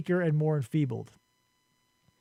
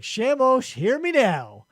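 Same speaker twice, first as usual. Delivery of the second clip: imitating an angry plea, higher at first; retold angry summons; 6 semitones higher, 3 dB louder, slower than usual. Dying man demands the sun god's attention, mock angry. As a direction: call on the god in mock anger. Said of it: "he's so angry that he has to die".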